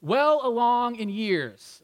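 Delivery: slow, delicate search for a polite word; tactful euphemism. Retold or imitated. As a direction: ease it out slowly, choosing words tactfully. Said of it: "how do I say this?".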